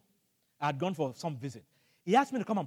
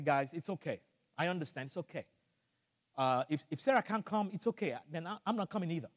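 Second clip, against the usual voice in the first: calm and reassuring; 7 dB quieter than usual. Retold or imitated. Calm reply to the elder.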